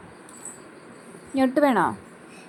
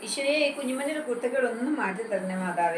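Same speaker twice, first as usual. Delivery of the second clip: laughing prayer; 2 semitones lower than usual. Shown as a demonstration. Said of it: "ഞാൻ പ്രാർത്ഥിക്കാം".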